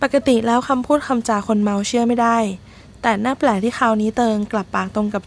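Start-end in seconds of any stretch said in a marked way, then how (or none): none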